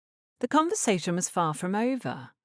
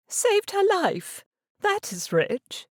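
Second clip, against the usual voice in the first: slow, higher, mocking disbelief; sarcastic scoff; 3 dB louder, slower than usual. A narrator's reading. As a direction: drag it out with scornful amusement. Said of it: "Mamma chuckled".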